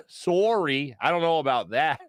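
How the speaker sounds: lightly imitated Canadian accent; a polite mock-Canadian refusal, rounded "Sorry". Lady with the gravy to a customer, Canadian accent. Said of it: "In the most Canadian voice ever".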